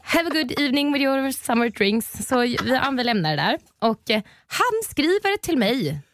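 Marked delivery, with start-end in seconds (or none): 0.0-2.3 put-on higher-pitched Swedish-accented English; awkwardly cheery Swenglish farewell. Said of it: "fick prata engelska".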